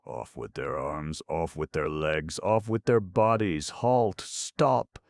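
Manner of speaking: shouted threats. Acted. Headmen chant threats.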